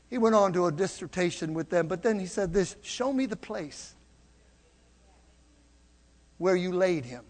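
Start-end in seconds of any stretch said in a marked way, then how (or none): 2.8-7.2 Jesus's quiet request. Acted. Jesus voiced calmly.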